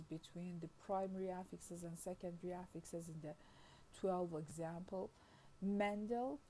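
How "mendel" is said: Mendel stressed on MEN, rising at the end; stress on first syllable. Shown as a demonstration. Lecturer reads a word pair, stress on first syllable. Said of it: "stress in Mendel is on the first syllable".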